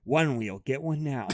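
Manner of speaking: cheeky announcer-style tagline; mock ad read. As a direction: deliver a joking commercial plug. Mock ad plug after being told off.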